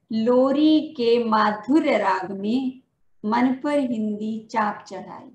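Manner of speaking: measured, sing-song reading of a poem, lines repeated; poem recitation. Acted. Teacher reciting her poem at a Hindi Day event, rhythmic and measured. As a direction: recite each couplet to the audience, then repeat it.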